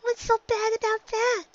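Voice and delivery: high filly voice, said flatly; a child bluntly not understanding; high little filly, flat and blunt; flat young filly. A narrator's reading. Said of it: "she said flatly".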